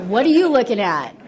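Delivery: hammed-up tipsy indignation; indignant retort. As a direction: throw it out like a challenge. Acts out her drunk retort to boyfriend.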